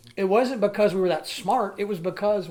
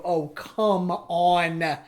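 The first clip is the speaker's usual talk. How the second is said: exasperated; 6 dB louder, much slower than usual. Retold or imitated. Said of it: "made me go".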